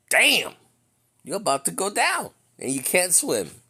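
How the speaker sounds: sudden high alarmed cry; mock panic. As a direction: jump up high like you're going under. Preacher dramatizes drowning panic.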